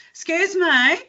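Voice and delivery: plummy upper-class Melbourne voice, slowed; imitating a posh Toorak lady asking politely; a touch of posh Melbourne accent. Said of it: "Are you from Toorak?".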